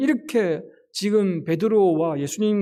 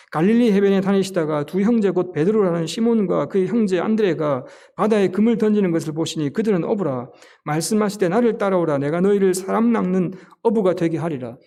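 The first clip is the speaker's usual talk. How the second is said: firm, louder Bible reading voice; scripture reading; 4 dB louder than usual. Acted. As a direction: read the verses out to the congregation. Reads scripture aloud in sermon. (힘 있게 성경 봉독하듯)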